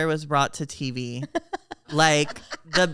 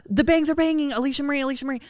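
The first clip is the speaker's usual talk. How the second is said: imitating the singer; 10 semitones higher, much faster than usual. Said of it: "she's like".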